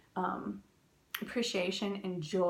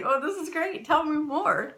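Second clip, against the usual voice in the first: higher, louder, laughing sarcastic cheer; mock enthusiasm; 7 semitones higher, 7 dB louder than usual. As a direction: play along with a laugh, ironically. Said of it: "And I was like".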